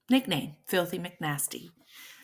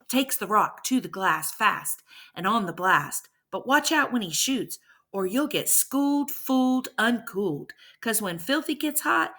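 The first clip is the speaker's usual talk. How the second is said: rhythmic, punchy spoken-word delivery; hype poem. A narrator's reading. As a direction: hype up the mythical baller like a rap intro.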